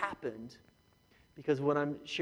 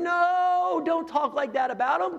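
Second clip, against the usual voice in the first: Jesus rebuking; 8 dB louder, slower than usual. Acted. Jesus rebukes the judging church.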